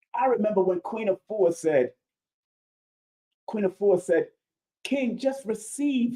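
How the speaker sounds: emotional voice welling up with tears. Recalling a compliment you once received, tearing up as you speak. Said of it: "and I'm tearing up now".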